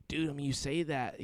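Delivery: a hint of a laid-back Steve-O type; Steve-O-like friend. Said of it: "He sounds like Steve-O".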